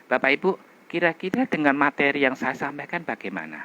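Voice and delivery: fluent, even ask; smooth friendly question. Shown as a demonstration. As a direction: invite the audience smoothly. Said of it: "sekarang bandingkan dengan gini". (bertanya lancar dan ramah)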